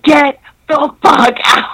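slow, drawn-out order to leave; firm slow dismissal. Retold or imitated. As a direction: spell out each word as a final order. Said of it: "I was like".

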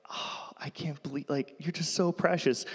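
put-on soft, doting coo over a cute kid; doting aside. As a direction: melt a little, hushed.

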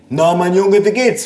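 high grandmotherly greeting; greeting grandma. A narrator's reading. Grandma greeting her grandson, high-pitched.

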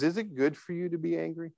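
soft, searching question; hushed, caring challenge; gentle God. Retold or imitated. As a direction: ask it quietly, as a kind God. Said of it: "you need to hear God's voice in this question".

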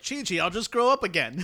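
lightly voiced cheerful anime character; retold anime hero. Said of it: "He was like".

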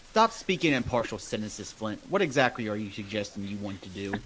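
gruff Roscoe voice. Acted. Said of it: "Roscoe looks at you and goes".

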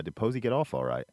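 put-on slipping into a light English accent; British-tinged phrasing. Asking a cousin in the kitchen, slight English accent. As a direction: let a hint of England creep in. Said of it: "when have I ever in America said".

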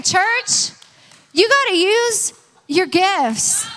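loud, high, drawn-out call to the church; emphatic repeat. Real, not acted. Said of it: "And say that again".

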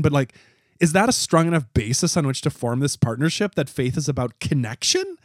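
doubting, questioning tone; skeptical. Acted. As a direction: poke holes in the claim. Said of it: "I'm speaking in my skeptical voice".

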